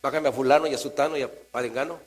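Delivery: fast mock orders; rattled-off list of commands; bossy. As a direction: imitate someone bossing God around. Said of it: "Llega de mandón".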